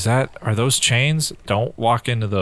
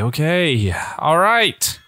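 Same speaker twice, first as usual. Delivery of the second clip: high, loud burst of relief; relieved; 5 semitones higher, 3 dB louder, slower than usual. Real, not acted. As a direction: cheer with relief. Relief after escape.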